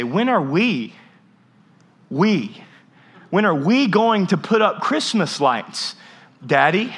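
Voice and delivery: lightly voiced kid asking Daddy; a child's slow pleading question. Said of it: "my children start asking me".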